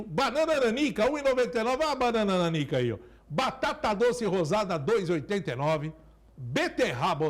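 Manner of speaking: upbeat supermarket ad read; market barker. Acted. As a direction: sell the deals like a market barker. Sponsor ad read mid-show.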